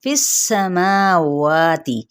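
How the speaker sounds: फिस with a short clipped इ; short vowel. Shown as a demonstration. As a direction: say फिस quickly, then draw out समावाति. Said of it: "फीस नहीं कहना हमने".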